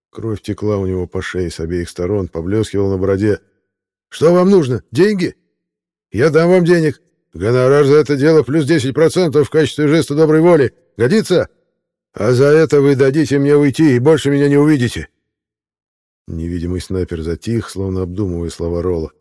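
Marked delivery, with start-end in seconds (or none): 4.1-15.1 high, loud, pleading offer; desperate bargaining. Acted. Rollo bargaining with Mel and the sniper, desperate and high.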